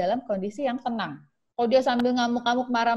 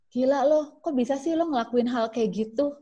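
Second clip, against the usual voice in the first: shocked judging friend; 4 semitones higher than usual. Shown as a demonstration.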